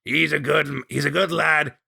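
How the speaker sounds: lightly voiced grizzled Scot, hearty; old Scottish hunter. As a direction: play the gruff old mentor with a wink. Old hunter introduces Morris.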